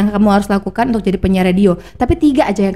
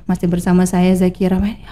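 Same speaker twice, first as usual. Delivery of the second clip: mock a host who feels all alone; stiff lonely presenter; 3 semitones lower than usual. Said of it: "kita kayak merasa sendiri".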